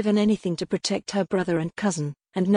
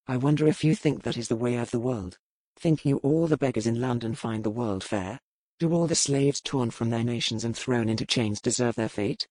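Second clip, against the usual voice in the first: Black, deep and grave; 7 semitones lower than usual. Acted. Pirate captain answering the lady's plea, low and grave. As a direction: lecture her darkly on the world's unfairness.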